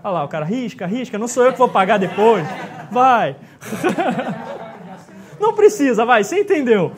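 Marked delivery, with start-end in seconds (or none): 0.9-3.4 louder words through laughter; joking and laughing along. Real, not acted. Teacher joking with the class, laughing. 3.4-5.3 rising burst of laughter. Real, not acted. Joking with students. 5.4-6.9 louder, words through laughter; laughing. Real, not acted. Teacher waves off a student's joke, laughing loudly.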